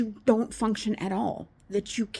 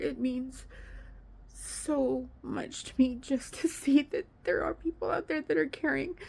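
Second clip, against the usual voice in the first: higher, emotional, fighting back tears; crying thanks to her viewers; tearful; 4 semitones higher than usual. Real, not acted. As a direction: thank them through real tears. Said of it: "with all the tears".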